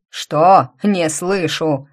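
громкое насмешливое «Что?»; крикни, издеваясь над жертвой; издевательский окрик. Acted. Надсмотрщик издевается над рабом. (издевательский окрик)

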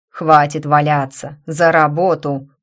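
громкий грубый приказ; гаркни, подгоняя рабов; окрик. Acted. (громкий окрик)

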